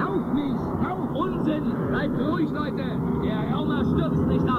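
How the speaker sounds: high, loud commands to the crowd; loud, high calling to frightened townspeople. Acted. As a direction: shout to calm the panic. Calming panicking crowd.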